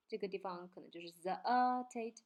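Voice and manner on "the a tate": "the a tate" with the middle sound drawn out; syllable singled out. Shown as a demonstration. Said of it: "它把它单拎出来了". (单独拎出“the a tate”中间的音节)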